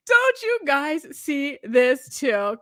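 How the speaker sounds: "Don't you guys see this too?" stretched out very slowly; slow, drawn-out plea. Shown as a demonstration. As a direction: drag every word of "Don't you guys see this too?" out to press the point.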